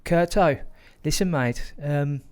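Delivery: put-on light Birmingham accent for a mate's news; a hint of Brummie, cheeky and pleased; lightly voiced Brummie mate. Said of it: "in his broad Brummie accent".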